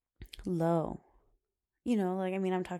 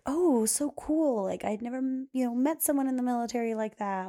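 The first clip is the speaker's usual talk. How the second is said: high, gushing "oh so cool"; gushing excitement; 5 semitones higher, 4 dB louder than usual. Retold or imitated. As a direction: gush like an eager teen. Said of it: "And I was like".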